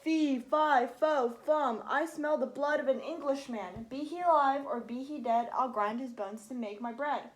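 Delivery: loud bellowed giant rhyme; bellowing giant, loud. Acted. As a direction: boom out the rhyme. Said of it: "The giant bellowed".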